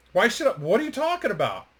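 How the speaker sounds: excited. Retold or imitated. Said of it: "he was so excited".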